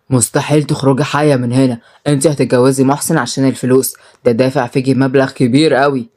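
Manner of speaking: low, understated angry threat; angry muttered threat. Acted. Brother threatening his sister up close, understated anger. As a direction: threaten her in a voiced, low-pitched undertone. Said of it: "وهمس في ودنها بكل غضب".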